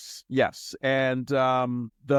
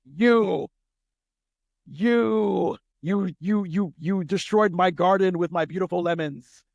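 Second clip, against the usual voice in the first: higher, louder put-on voice stammering "you"; mock outrage over a ruined garden; sputtering grumpy Urkel; 6 semitones higher, 4 dB louder, slower than usual. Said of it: "Urkel just gave me".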